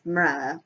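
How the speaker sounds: the author's way of saying Morella. Shown as a demonstration. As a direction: pronounce Morella as mo-RELL-a. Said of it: "So I pronounce it Morella".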